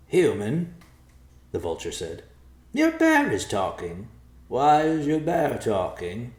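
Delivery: high, slow, puzzled bird voice; a bird baffled by a talking bear; curious vulture. Acted. Vulture questioning the human, high puzzled voice.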